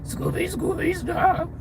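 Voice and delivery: high whining cartoon dog voice; Scooby-Doo impression. Vlogger repeats her cartoon dog bit for chat, high and whining. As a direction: whimper it like a scared cartoon dog. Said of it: "I can just Scooby".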